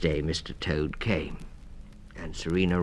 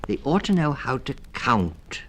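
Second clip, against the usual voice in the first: higher, gentle mother mouse; a mother mouse pleading lightly; Missus Mouse voice; 9 semitones higher, 5 dB louder than usual. A narrator's reading. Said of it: "said Missus Mouse".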